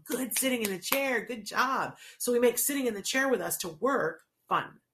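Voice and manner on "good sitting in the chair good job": praising. Shown as a demonstration. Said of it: "we tick and we go".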